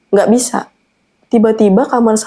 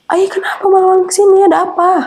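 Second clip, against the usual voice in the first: high-pitched worried mother; startled questioning; 9 semitones higher than usual. Retold or imitated. Mother opens the door to a late-night visit, startled questioning.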